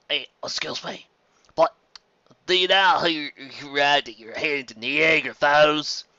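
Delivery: slow, lightly voiced old pony; nosy interruption; grizzled old stallion. Old stallion overhears and questions Twilight.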